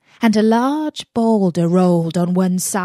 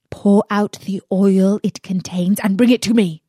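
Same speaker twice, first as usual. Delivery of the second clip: commanding magician; 6 dB louder than usual. Acted. Magician's final order.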